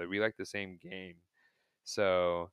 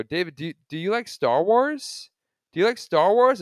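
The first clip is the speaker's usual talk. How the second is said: put-on excited kid voice; 10 semitones higher, 12 dB louder than usual. Kid asking his idol eagerly.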